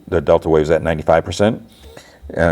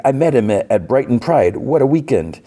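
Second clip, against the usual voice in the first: higher, giddy gossip; lightly hammed-up giddy fan; gushing; 7 semitones higher than usual. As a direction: gush like a fan remembering a party. Doctor gushing about Brighton Pride.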